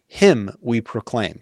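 slow, with "Him" hit first and hardest; stress on HIM. Shown as a demonstration. Quoting the English verse to the host, slow, "Him" stressed. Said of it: "the emphasis is on Christ".

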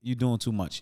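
code-switched street talk; African American accent. Retold or imitated. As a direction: drop into street talk to calm him. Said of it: "'cause I code switched on him".

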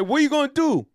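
high, loud put-on voice; ghostly brother. Ghost brothers pushing Michelangelo, hammed-up high voice. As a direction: press him with a squeaky demand. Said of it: "And he said".

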